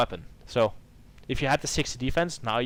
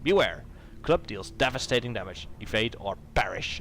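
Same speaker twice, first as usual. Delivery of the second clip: lore narration. A narrator's reading. Introducing the feared ogre chief, dramatic narration. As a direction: announce the boss like a legend. Reads the ogre's lore card.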